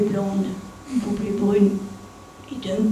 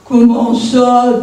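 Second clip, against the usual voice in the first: loud, slow, higher-pitched shock; an old man caught completely off guard; startled question; 3 semitones higher, 9 dB louder, much slower than usual. Acted. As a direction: recoil at the idea, drawn out. Père Noël shocked by proposal.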